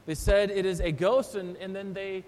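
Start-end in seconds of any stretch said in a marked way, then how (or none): 0.5-1.3 a touch of panicked shout; mock fearful cry. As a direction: cry it out like a spooked sailor. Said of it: "they cry out in fear".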